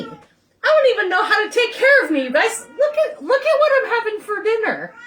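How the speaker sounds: high-pitched laughing through the words. Real, not acted. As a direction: laugh at yourself, half crying. Laughing at her own helplessness.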